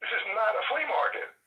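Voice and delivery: high, exasperated shopkeeper voice; impatient shopkeeper. Retold or imitated. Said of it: "The lady said".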